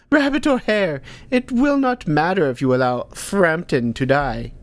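a hint of scolding crone; amused old teacher. Hilda Dee teasing Ank about naming the hare.

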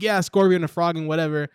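imitating someone who can't be bothered; half-assed retelling. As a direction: toss it off like a careless storyteller. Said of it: "the most half-assed way".

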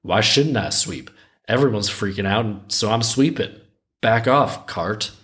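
casual, mildly testy mock retort; defensive broom. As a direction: paraphrase the broom brushing off a nosy question. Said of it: "why the broom is so defensive".

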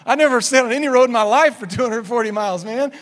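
loud, fast, high-pitched imitation of panic; hammed-up frantic complaint from a friend; mock freak-out. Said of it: "I'm freaking out".

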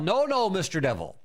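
firm rebuke, falling at the end; out loud, with authority. Shown as a demonstration. Believer alone rebuking Mister Devil, out loud with authority. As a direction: tell him off with some authority. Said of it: "use some authority out loud".

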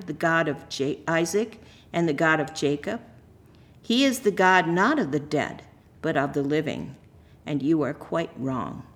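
measured, formal liturgical reading; scripture reading. Acted. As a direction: proclaim the lesson with even, solemn phrasing.

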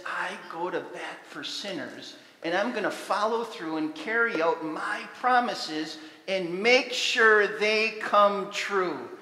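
building to a loud, slow vow; God's promise. Acted. God's name promises sinners, growing to a loud vow. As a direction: swear it like an oath. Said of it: "God's name that says".

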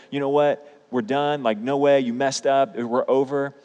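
mock the harsh words they could have said; imagined harsh reply. Mild pretend scolding from the hosts he let down. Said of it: "they could have been so harsh".

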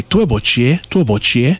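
对不起 said as a clear Mandarin demo, slowing down at the end; Mandarin sorry. Shown as a demonstration. Teaching a podcast phrase for bumping into someone, in careful Mandarin. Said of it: "the way you say sorry or excuse me, you say".

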